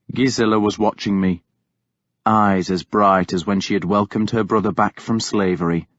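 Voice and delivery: usual speaking voice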